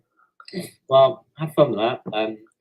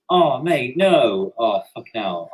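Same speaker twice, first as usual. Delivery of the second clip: unconvincing acted dismay; badly faked "oh mate, no"; insincere sympathy; 3 dB louder, slower than usual. Shown as a demonstration. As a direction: deliver dismay without really meaning it. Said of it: "That's, like, really insincere".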